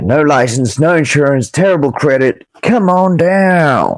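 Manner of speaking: rising, drawn-out car-ad pitch; mock ad pitch. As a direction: sell it like a cheesy local ad. Mocking a payday loan ad.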